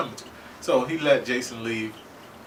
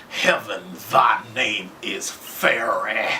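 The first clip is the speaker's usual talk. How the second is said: loud, slow, crazed declamation; Russell Edgington; 5 dB louder, slower than usual. Retold or imitated. Fan imitates a bloodlusting ancient character, crazed and grand. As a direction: proclaim it grandly, imitating a crazy ancient villain. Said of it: "he was crazy".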